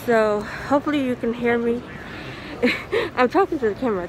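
muffled through a mask; talking through a face mask; behind welding mask. Real, not acted. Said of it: "hear me with this mask on".

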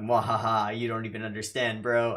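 hammy villain laugh, then fast taunt; mad scientist. Retold or imitated. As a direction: cackle it out like a cartoon villain. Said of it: "All for One going".

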